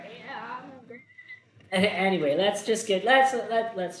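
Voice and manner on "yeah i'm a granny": high, thin mock old granny. Friend imitating Granny Melba, high and hammed-up. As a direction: play a bad little granny. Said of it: "She was Granny Melba".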